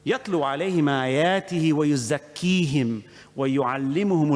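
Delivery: fast chanted Quran recitation; Quranic recitation. Real, not acted. Preacher quoting Allah to his congregation, fast chanted recitation. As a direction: chant the verse quickly, in one sweep.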